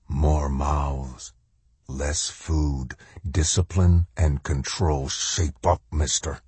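shadow soldier voice. Acted. Shadow soldier drills Macklin.

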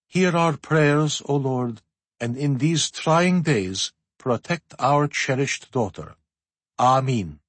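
slow, solemn prayer. A narrator's reading. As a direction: intone it slowly. Tsar prays solemnly.

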